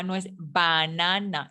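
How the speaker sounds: banana slowly with open Spanish A vowels; Spanish-style banana. Shown as a demonstration. Teacher warning students about Spanish banana. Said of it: "la pronunciación de banana".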